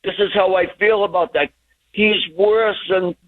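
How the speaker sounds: ordinary delivery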